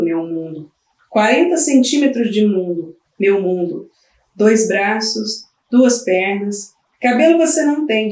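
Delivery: lightly voiced tired mother talking to her baby; weary young mother. Mother alone with her crying newborn, lightly voiced. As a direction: speak to the newborn you can't calm.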